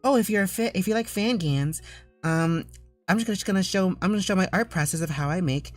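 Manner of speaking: high, prissy mock artist intro; a mock-snobby artist showing off; snooty artist voice. Streamer mocking a snooty artist to chat, high and prissy. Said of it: "I'm proceeding to be the most nasty person ever".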